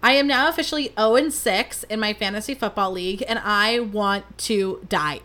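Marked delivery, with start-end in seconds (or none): 3.3-5.2 slow, mock-tragic moan; dramatic despair. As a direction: ham up the despair, dragging it out. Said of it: "I mean that in the most dramatic way possible".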